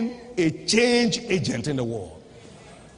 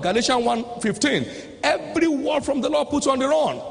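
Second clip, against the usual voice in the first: raised, driving preacher's delivery; preaching; 5 semitones higher than usual. Acted. Preacher to the congregation on God's word setting you running, preaching. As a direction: drive the point home from the pulpit.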